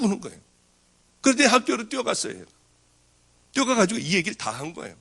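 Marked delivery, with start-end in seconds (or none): none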